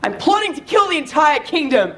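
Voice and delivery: mock-villain declaration, emphatic; a touch of theatrical anger; angry. Shown as a demonstration. Coach models angry Tyrion plotting against the kingdom. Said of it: "always be angry about it".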